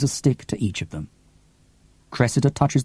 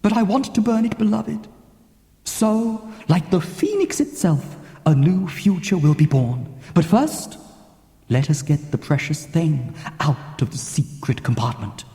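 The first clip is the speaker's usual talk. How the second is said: put-on old sea captain; 6 semitones higher than usual. Cressy's voice in the story.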